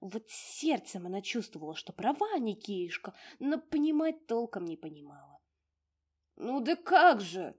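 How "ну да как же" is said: booming. Acted. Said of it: "забасил".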